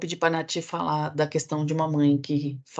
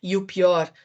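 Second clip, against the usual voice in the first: ordinary delivery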